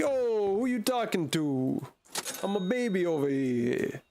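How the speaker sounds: put-on offended baby, high at first, then settling; mock-indignant toddler. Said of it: "And he's like".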